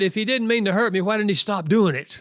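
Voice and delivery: acted exasperation, pushed up in pitch; exasperated complaint. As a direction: voice a fed-up wife demanding an answer. Voicing an exasperated wife's complaint.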